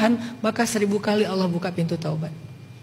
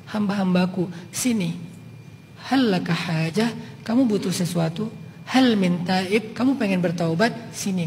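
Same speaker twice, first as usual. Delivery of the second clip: gentle beckoning call; 2 semitones lower, 3 dB quieter than usual. Retold or imitated. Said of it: "kata Allah".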